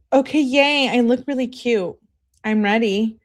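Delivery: high, loud imitation of an eager girlfriend; excited mock gushing. Girlfriend telling boyfriend she's ready, mock-excited.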